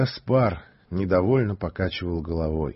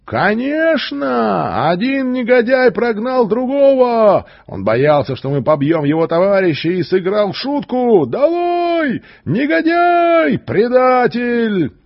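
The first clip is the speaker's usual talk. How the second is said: much higher furious shouting; angry crowd; 12 semitones higher, 6 dB louder than usual. Acted. The enraged crowd denounces the stranger, shouting. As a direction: hurl the insults at him.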